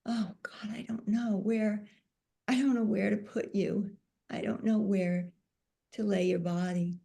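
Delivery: a touch of grief, half-whispered; sad plea. Retold or imitated. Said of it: "And I held him and I said".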